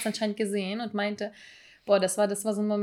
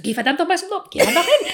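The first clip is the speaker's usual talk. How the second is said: laughing shout, much higher and louder; mock shout; 7 semitones higher, 7 dB louder than usual. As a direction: yell it at a friend, half laughing. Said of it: "Und schreit mich schon wortwörtlich an". (lachend nachgeahmtes Anschreien)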